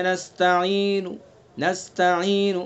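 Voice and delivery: نستعین with the last third of the vowel faintly voiced; slow نستعین ending on a whispered trace of the vowel; waqf bil-rawm. Shown as a demonstration. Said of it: "آخری تہائی حصہ ادا کیا جائے".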